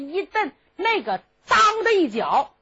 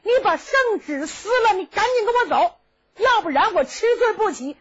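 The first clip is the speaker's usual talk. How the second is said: raised, pressing prince voice, higher; an anxious royal uncle, high and insistent; high-pitched prince; 9 semitones higher, 4 dB louder than usual. Acted. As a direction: urge the boy to come along, voice pitched up. Prince Li Daozong demands.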